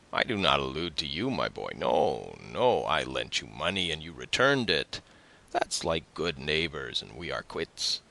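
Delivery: a hint of a familiar, talkative neighbour; swooping, sing-song dialogue for a neighbour; lightly voiced tailor neighbour. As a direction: brush off the young man chummily. Story narrator voices the tailor neighbour.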